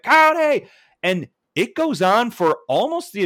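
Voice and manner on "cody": high, loud yelled name; imitating kid's shout. Kid berating Cody mid-promo, high mock yell. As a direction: mimic a kid heckling from the crowd. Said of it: "being like".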